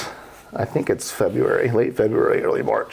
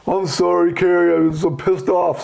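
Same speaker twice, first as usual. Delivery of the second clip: lightly voiced upset golfer, higher pitch; retold worked-up apology, pitched up; agitated apology; 8 semitones higher, 3 dB louder than usual. Vince explaining himself to the pro, agitated.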